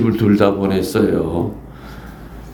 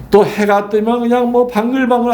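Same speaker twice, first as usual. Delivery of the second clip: normal talking voice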